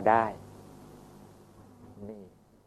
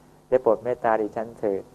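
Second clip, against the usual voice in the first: earnest pleading. Acted. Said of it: "เขาก็จะขอร้องอย่างนี้".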